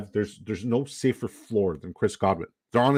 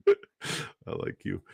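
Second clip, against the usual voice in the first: whisper; 2 semitones lower, 5 dB quieter, much slower than usual. Real, not acted. Affectionate aside to chatter.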